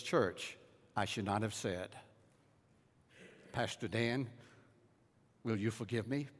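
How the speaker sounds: soft, low, broken apology; humble plea. Retold or imitated. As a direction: beg forgiveness quietly. Elder's tearful public apology.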